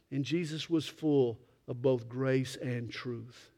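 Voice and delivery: quiet, slow, sincere close; soft and slow. Real, not acted. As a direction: drop down to a tender hush. Soft drop after loud build.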